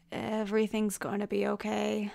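soft, soothing murmur; hushed reassurance. Acted. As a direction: softly comfort someone dying. Comforting the dying man.

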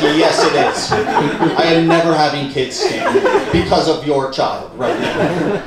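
loud, emphatic comic retort; a touch of loud indignation; mock blunt retort. Belayer answering a small-talking parent, bluntly emphatic.

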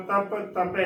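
"ਤਪੇ" with short first vowel, no long aa; common mispronunciation. Shown as a demonstration. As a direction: clip the a in "ਤਪੇ". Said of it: "ਬਿਨਾਂ ਕੰਨੇ".

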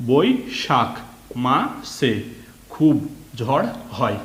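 word-by-word reading with short pauses; reading-aloud demo. Shown as a demonstration. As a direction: read it out like a first reader, word after word. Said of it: "reading পড়ার মতো পড়ে নাও". (শব্দে শব্দে থেমে reading পড়া)

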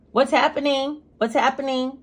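playful wonder at herself; mock amazement. Real, not acted. Vlogger to viewers, amazed she isn't stuttering, playfully. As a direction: marvel at your own smooth talking. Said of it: "And I'm not stuttering".

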